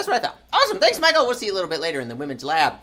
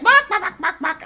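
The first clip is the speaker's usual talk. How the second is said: high imitated animal barking; Moby; 13 semitones higher, 5 dB louder than usual. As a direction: mimic silly, rapid-fire barks. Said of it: "And then Moby was like".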